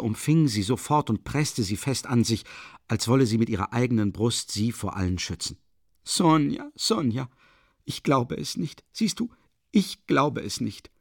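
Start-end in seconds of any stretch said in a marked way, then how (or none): 6.0-10.9 tender protest. A narrator's reading. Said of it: "rief Katharina Iwanowna".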